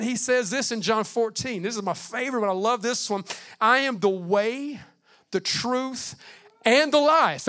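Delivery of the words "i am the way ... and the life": slow start, swelling to a loud, high finish on life; building proclamation. Acted. Pastor proclaiming Jesus' words to the church, building loud. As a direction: build each phrase until the last rings out.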